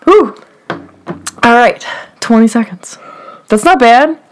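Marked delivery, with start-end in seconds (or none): 0.0-0.4 sleepy yawning sigh. Real, not acted. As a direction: exhale at the end of a yawn. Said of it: "I keep yawning".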